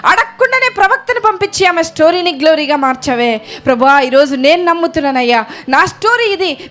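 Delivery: fervent prayer led aloud for the church; pleading prayer rising in pitch; model prayer. Shown as a demonstration. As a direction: pray it out earnestly to the Lord. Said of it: "ప్రభువుకి చెప్దామా?".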